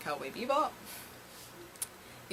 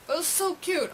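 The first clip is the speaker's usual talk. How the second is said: gushing excitement; 12 semitones higher, 7 dB louder, faster than usual. Real, not acted. Fan gushing to viewers about a cute dress, in a much higher, louder squeal.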